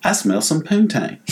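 high, appreciative whoop into a drawn line; imitated football player. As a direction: mimic a whooping teammate. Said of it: "he goes like".

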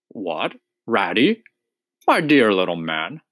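a gentle, fatherly welcome; suddenly warm. Acted. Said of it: "exclaimed the Badger in quite a different voice".

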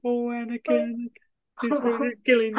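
high, fast mock-tragic voice; hammed-up soap-opera anguish; melodramatic mock plea. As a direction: overplay a dying lament. Melodramatic parody quote.

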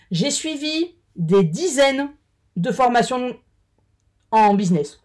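halting, slow between sips; talking around a drink; while sipping a drink. Real, not acted. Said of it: "Pardon, je bois un coup". (en buvant une gorgée)

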